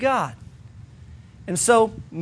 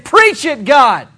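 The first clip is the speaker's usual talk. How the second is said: cheering amen; 3 semitones higher, 5 dB louder, slower than usual. Acted. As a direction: shout it like a church amen. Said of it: "And Moses saying".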